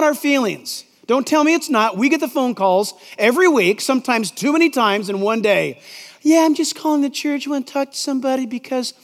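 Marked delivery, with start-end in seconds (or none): 6.2-8.9 lightly put-on girlish caller voice; girl's voice. Church caller announcing he leaves his wife, mock girlish voice. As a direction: slip into a girl's voice for the caller by mistake. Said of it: "That's the wrong voice, actually. That's the girl's voice".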